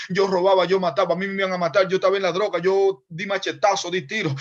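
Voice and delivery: boastful preacher testimony. Retold or imitated. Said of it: "los predicadores buenos son cuando dicen".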